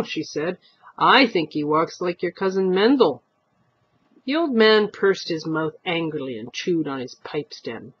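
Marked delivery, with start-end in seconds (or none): 1.0-3.2 put-on nettled old wife.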